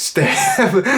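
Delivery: can't get it out for laughing. Real, not acted. Cracking up while retelling the scene.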